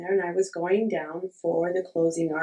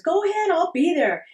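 high and louder, fed up; exasperated insisting; 10 semitones higher, 5 dB louder than usual. Retold or imitated. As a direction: push him off impatiently. Urging husband repeatedly, angry.

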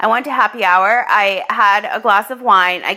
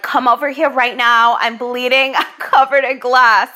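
urgent plea; 2 semitones higher than usual. Retold or imitated. Urgent call to friend.

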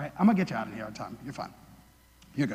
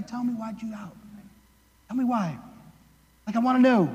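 gentle asking; 3 semitones lower than usual. Retold or imitated. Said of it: "actually asking Peter to look inside himself".

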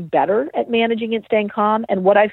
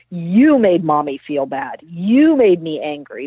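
mock blaming; 3 semitones lower, slower than usual. Example of a parent blaming the child.

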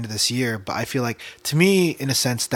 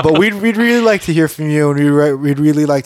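mock-sincere appeal; 3 semitones higher, 6 dB louder than usual.

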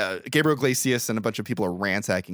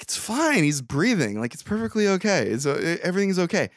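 tag; 9 semitones higher than usual. Retold or imitated. Voices Mike brushing off panicking Brooke.

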